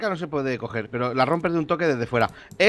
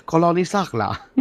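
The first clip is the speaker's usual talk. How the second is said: a mock French accent, greeting grandly; hammed-up French explorer voice; 2 semitones higher than usual. Gamer playing a French colonist, mock French accent. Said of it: "Me siento un poco francés hoy".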